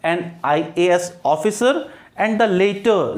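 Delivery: each word drawn out for students; slow example sentence. Shown as a demonstration. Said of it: "इसलिए मैंने कहा है". (धीमे-धीमे उदाहरण वाक्य)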